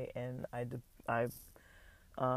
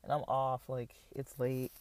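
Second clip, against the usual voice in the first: talking between sips of water; sipping water while talking; while sipping a drink; 4 dB quieter than usual. Real, not acted. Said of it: "sorry, I'm drinking water".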